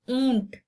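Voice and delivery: ऊंट with nasal ऊं; ऊंट, nasalized vowel; nasal oon. Shown as a demonstration. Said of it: "ऊंट नहीं बोलेंगे हम". (ऊंट का ऊं नाक से)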